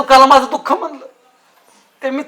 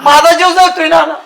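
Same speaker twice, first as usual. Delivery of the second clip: raised, anguished tearful protest; crying; 2 semitones higher than usual. Acted. Heartbroken man complaining to Nana about her, crying. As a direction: protest through tears, voice pushed up. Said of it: "तू नुसतं रडणार".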